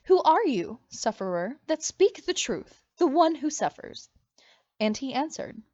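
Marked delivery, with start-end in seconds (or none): 0.1-4.1 loud, high pleading; begging. Acted. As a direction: plead with him in anguish. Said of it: "She begged".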